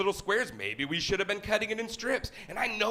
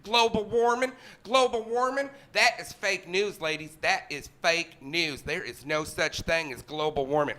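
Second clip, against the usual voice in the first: changed voice to provoke. Acted. Shopper messing with college girls, emphatic put-on voice. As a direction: declare it with deliberate emphasis, as a wind-up. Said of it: "Change your voice and mess with them".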